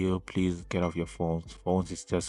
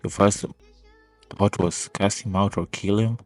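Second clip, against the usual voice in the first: louder, pressing every point; heated rant; 6 dB louder than usual. Real, not acted. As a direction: push back hard, voice raised. Heated rebuttal to the video.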